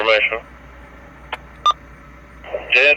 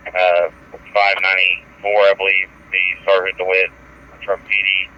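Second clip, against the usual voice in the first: police radio; 4 semitones higher than usual. Real, not acted. Police radio scanner traffic.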